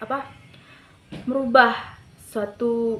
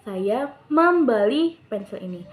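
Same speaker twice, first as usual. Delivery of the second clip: kata "membeli" ditinggikan, tempo lambat; pelan-pelan, lalu tonjolkan "membeli"; tekanan pada "membeli". Shown as a demonstration. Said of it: "membelinya kita tinggikan". (naikkan nada pada kata "membeli")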